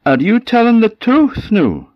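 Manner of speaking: high, loud, insistent challenge; shocked questioning. Acted. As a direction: demand the truth from the goat. Shocked woman questions the goat.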